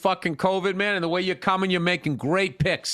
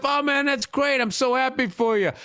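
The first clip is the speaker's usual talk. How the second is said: gushing supportive friend, pitched up; retold encouragement, higher and gushing; 6 semitones higher than usual. Friend cheering on a new magician, supportive. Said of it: "I'm being all supportive".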